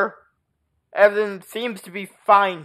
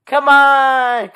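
higher, louder coaxing call; coaxing pet; 7 semitones higher, 7 dB louder than usual. Real, not acted. Owner urges cat to follow, high coaxing voice. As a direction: coax the cat along.

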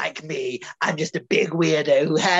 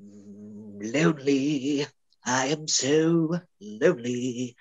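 low, slow mock-mournful moan; milk the self-pity; hammed-up lonely; 5 semitones lower, 3 dB quieter, slower than usual. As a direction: lower and slower melodrama. Actor hams his lonely lines.

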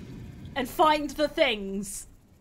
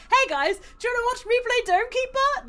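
high-pitched, keen invitation; acted-out excited ask; eager pitch to friends; 9 semitones higher than usual. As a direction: pitch it brightly to your friends. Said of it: "Just be like".

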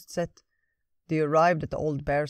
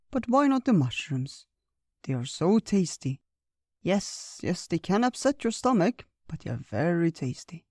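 put-on higher old bear, playfully protesting; 3 semitones higher than usual. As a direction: defend the mushrooms with good humour, pitched up. Old Bear defends mushrooms.

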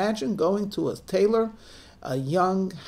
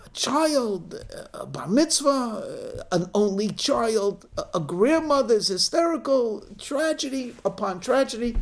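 higher-pitched, disjointed scraps of lament; garbled fragments of hysteria; 6 semitones higher than usual. Acted. Neighbours catching garbled news, high fragmented lament. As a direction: toss out broken phrases of overheard grief. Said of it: "was a bit garbled".

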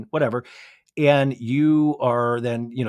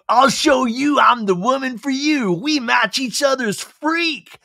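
high, loud, over-eager bravado; mock a woman eagerly proving herself; Joe; 11 semitones higher, 6 dB louder than usual. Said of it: "Joe trying to be like".

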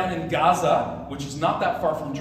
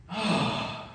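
sigh; 4 semitones higher, 3 dB quieter than usual. Acted. After the crowd's doubtful reply.

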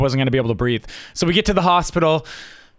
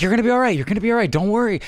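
higher, breezy brush-off as Dad; mock reassuring dad; 6 semitones higher, much faster than usual. Dad brushing off his son's pain, higher mock reassurance. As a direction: imitate Dad shrugging it off lightly.

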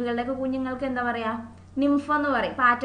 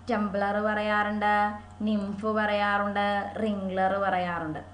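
slow dictation; 3 semitones lower, much slower than usual. Shown as a demonstration. Teacher dictating terms slowly.

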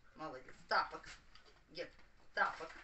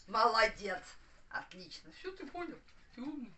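talking to a dog; 3 semitones higher, 4 dB louder than usual. Real, not acted. Praising the dog after a fetch.

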